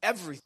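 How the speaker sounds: "Everything." set apart for emphasis; single emphatic "Everything."; stress on Everything. Shown as a demonstration. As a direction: repeat "Everything." as a point of emphasis. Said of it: "I'm emphasizing the".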